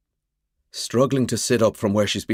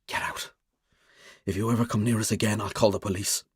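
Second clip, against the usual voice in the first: much softer, hard and controlled; cold quiet threat; 5 dB quieter than usual. Acted. Mick cutting Finn off coldly.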